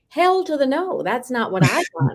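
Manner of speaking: high-pitched, emphatic mock refusal. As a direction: refuse outright, pitch leaping up at first. Retells refusing father's marriage plan.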